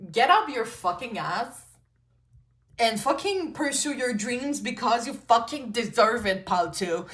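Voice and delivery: a friend cursing you into action, half laughing; tough love cussing. Retold or imitated. Best friend cussing you out to chase your dream, playful and pushy. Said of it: "I'm talking like that".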